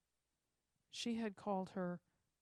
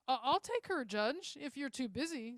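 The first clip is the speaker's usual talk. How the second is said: eager offer; 5 semitones higher, 5 dB louder than usual. A narrator's reading.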